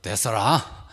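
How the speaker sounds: a hint of Jeolla speech; Jeolla dialect. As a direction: brush it off with a Jeolla ending. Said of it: "전라도 사람들은".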